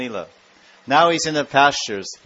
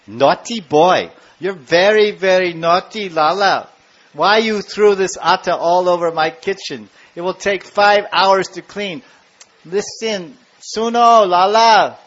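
mother scolding, slow at first, then higher and louder; 4 semitones higher, 5 dB louder, slower than usual. Acted. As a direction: scold the naughty little boy, building to a sharp call. Yashoda scolds child Krishna.

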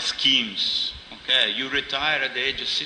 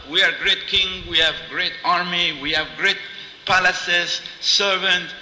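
mildly hammed-up royal boasting, raised pitch; boastful kings; 5 semitones higher than usual. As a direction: list your riches like an indignant king. Proud kings boast to the goddess.

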